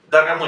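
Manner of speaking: Dar, ga, muy, unstressed O said as A; full word said slowly. Shown as a demonstration. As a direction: join the syllables Dar, ga, muy. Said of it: "es fácil".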